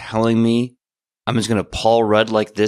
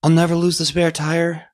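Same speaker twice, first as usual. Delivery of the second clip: much higher, worried questioning; dismayed disbelief; 9 semitones higher than usual. Acted. Alex learns his body is frozen, high dismayed questioning. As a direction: ask it high, as the bad news sinks in.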